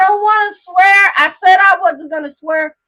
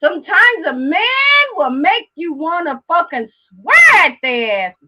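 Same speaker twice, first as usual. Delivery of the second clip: frustrated outburst. Real, not acted. Angry outburst about a man.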